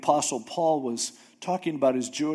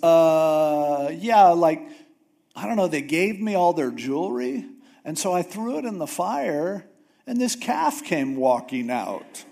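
sheepish excuse; 3 semitones higher, 4 dB louder than usual. Retold or imitated. Aaron makes a lame excuse.

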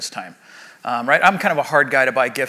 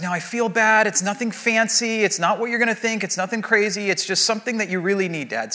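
higher-pitched quote of an apologetic daughter; a hint of an earnest little girl; imitating young daughter; 4 semitones higher than usual. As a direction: lightly voice a child managing Dad's expectations. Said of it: "and she goes".

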